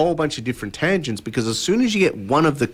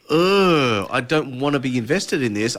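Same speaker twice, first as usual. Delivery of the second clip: mock weary groan, then sagging; reluctant groan. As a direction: groan it like an unwilling player. Voices reluctant players at party.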